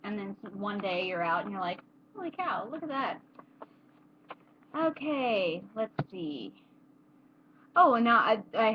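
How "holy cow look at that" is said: acted amazement. Acted reaction to seeing sunbeams.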